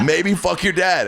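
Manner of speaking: slow, laughing repeat of the line; echoing the punchline, laughing. Retold or imitated. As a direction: laugh through it slowly. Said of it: "I'm gonna go make dinner and just maybe fuck your dad".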